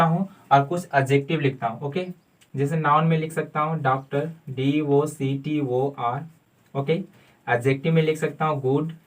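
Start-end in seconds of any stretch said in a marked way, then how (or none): 4.5-6.2 slow letter-by-letter spelling; spelled out. Shown as a demonstration. Teacher spelling a word slowly for students. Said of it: "spelling out for students".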